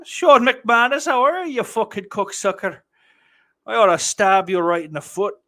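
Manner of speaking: loud, high playful insults; high-pitched mock outrage; mock-abusive greeting. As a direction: holler a jokey threat at a pal. Mock-abusive greeting to a chat viewer.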